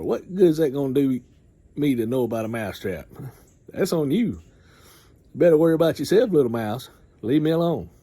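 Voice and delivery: a big cow brushing off a mouse; scoffing cow. Retold or imitated. Cow scorning the mouse, mild scoffing voice.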